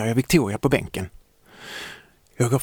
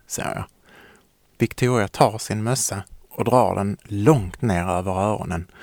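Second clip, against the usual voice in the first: ordinary delivery, nothing marked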